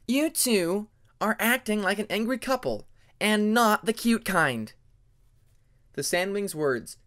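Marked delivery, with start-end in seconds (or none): 0.1-4.7 higher, louder teasing jab; mock the bickering pair; teasing Hyena.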